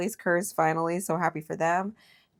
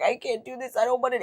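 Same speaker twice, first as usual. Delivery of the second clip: higher whiny imitation of a quitting racer; mock whine, higher and put-on; 8 semitones higher, faster than usual. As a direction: mimic her giving up, whiny. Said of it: "when she was like".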